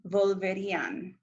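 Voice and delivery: "volverían" with the beat on the í, volveRÍan; stress on accented í. Shown as a demonstration. Teacher modelling the accented ending for students, stress on the í of "volverían". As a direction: lean on the í in "volverían". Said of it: "make sure that the I gets".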